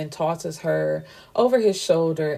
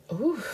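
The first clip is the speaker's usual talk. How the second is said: emotional ooh; 7 semitones higher than usual. Real, not acted. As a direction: let the scene catch you with a little high sigh of feeling. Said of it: "got me emotional".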